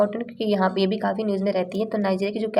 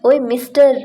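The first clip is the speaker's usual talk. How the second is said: loud, raised rude call; with attitude; 3 semitones higher, 6 dB louder than usual. Shown as a demonstration. Teacher repeats the rude call to a stranger, loud. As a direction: call him out rudely. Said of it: "थोड़े attitude में आते हैं".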